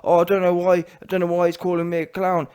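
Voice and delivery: mock mixed-up transatlantic accent; Lennox Lewis. Imitating a boxer upset at being called clown, mock North American accent. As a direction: put on his muddled North American accent. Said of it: "all these weird ass voices he's got".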